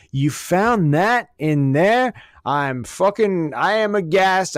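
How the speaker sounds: hammed-up prim shock, playing innocent; mock aghast Doris. Hoarder feigning shock to the cleaner, hammed-up prim astonishment. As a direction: gasp it out like a hoarder faking surprise. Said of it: "surprised as could be".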